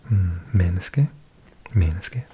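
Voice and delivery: slow menneske with a rising end. Shown as a demonstration. Learner copying the app's menneske slowly. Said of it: "repeating the app's word".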